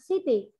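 CITY ending lightly on its open vowel; gentle, no final consonant. Shown as a demonstration. Teacher contrasts words without endings, CITY finished lightly on a vowel. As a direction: let CITY end easily on the EE. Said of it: "nó, nó rất nhẹ nhàng".

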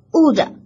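wood with a short clipped vowel, not drawn out. Shown as a demonstration. Teacher shows students wood with a short vowel. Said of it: "单词不要拖长".

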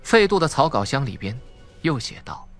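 usual speaking voice

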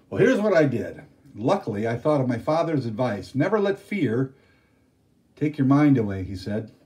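a father recounting his adventure to the family, proudly; storyteller Day Day. A narrator's reading. Day Day telling his children his adventure, animated.

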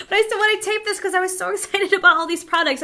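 high, loud and fast through laughter; laughing. Real, not acted. To viewers, explaining why she still films, laughing. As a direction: giggle through the excuse.

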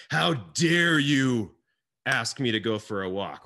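mock outraged wife; hammed-up offended spouse; indignant wife. Voicing the wife's outrage.

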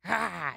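forceful breathy "ah" of release; vented exhale; exertion sigh. Shown as a demonstration. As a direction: let out an "ah" of exertion. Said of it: "It's about the exertion of".

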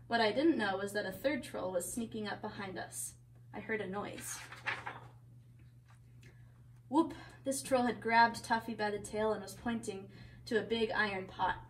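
lively picture-book reading; story narration. A narrator's reading. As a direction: read a story to children.

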